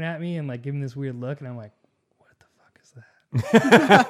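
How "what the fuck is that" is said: loud, slow startled outburst; startled what the fuck. Retold or imitated. Waking up on the bus to friends laughing, startled outburst. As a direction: jolt awake and demand what happened.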